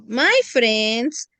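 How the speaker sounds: slow, even teacher model; deliberate classroom model; slow model sentence. Shown as a demonstration. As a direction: say it slowly for them to copy. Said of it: "Very good".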